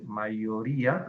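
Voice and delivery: mayoría slowed, with the í drawn out and a final rise; stress on mayoría. Shown as a demonstration. Teacher showing the accent on mayoría, slow and stretched. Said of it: "aquí debería haber una tilde".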